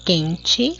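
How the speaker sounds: "quente" drawn out in separate syllables. Shown as a demonstration. Teacher showing pupils how the word divides, syllable by syllable. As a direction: say "quente" slowly, split as quen-te. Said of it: "ó, como eu separei".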